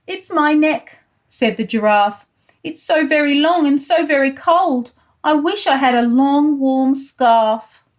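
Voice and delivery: a hint of a cold, sad giraffe. Giraffe complaining to George of cold, lightly voiced.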